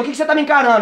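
ordinary delivery

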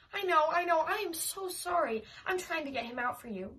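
high, loud hurried sorry; flustered apology. Acted. Babysitter apologising to the angry neighbour, high and flustered.

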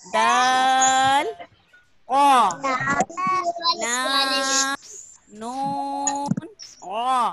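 light, simple letters, drawn out; plain easy letters. Shown as a demonstration. Teacher reading the simple letters with the class. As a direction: say each letter plainly and easily. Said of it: "बिल्कुल आसान आसान".

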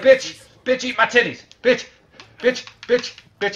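hammed-up high shouting at a prisoner; mock interrogation yell. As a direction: scream it at the captive like a thug. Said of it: "Be like".

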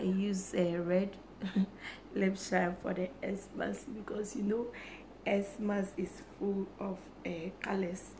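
hoarse, strained lost voice. Real, not acted. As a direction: talk through a lost, hoarse voice. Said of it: "I've lost my voice".

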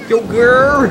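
yogurt said as "yo-gur", no T; dropped final T. Shown as a demonstration. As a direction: leave the T off the end of yogurt. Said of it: "Yogurt without the T".

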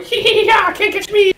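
very high-pitched giggly squeal; playful taunt. Acted. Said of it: "She was jumping around the go-, room going".

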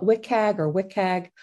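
"wcag" pronounced as a two-syllable word; acronym as word. Shown as a demonstration. Explaining the guidelines' nickname to attendees, "wcag" said as a word. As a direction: say "wcag" as one word, not letters. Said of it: "some people call it".

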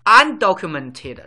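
Undocumented drawn out slowly and loudly a second time; slow, clear model word. Shown as a demonstration. Teacher repeating Undocumented slowly for the class, drawn-out enunciation. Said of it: "teaching vocabulary".

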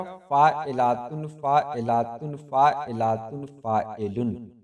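slow, measured beats on फ़ाइलातुन, dropping on फ़ाइलुन; metrical scansion. Shown as a demonstration. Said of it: "इसकी तख्ती करेंगे तो कैसे हो जाएगा". (फ़ाइलातुन की धीमी तक़्ती, फ़ाइलुन पर उतरता सुर)

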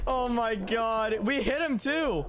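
stunned disbelief. Real, not acted. Stunned after a near kill.

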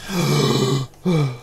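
gasp. Real, not acted. Fallen into shark water.

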